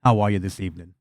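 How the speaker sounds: low, polite maître d' greeting; posh goblin host. Acted. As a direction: welcome her like a smooth host. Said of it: "and he says".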